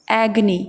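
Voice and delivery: एग्नी said as two syllables, no middle vowel; correct pronunciation. Shown as a demonstration. Teacher corrects एगोनी to एग्नी, clear. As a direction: model एग्नी, not एगोनी. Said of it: "ये एगोनी नहीं है".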